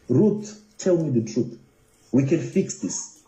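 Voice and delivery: earnest retold appeal. Blogger urging Ruth to tell the truth, earnest appeal. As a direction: ease down into a patient appeal.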